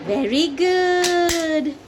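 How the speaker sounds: slow, encouraging praise; slow drawn-out praise. Real, not acted. Praising toddler's answer.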